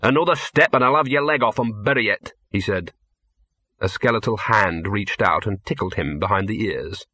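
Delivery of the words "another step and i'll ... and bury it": growled threat. Acted. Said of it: "and growled".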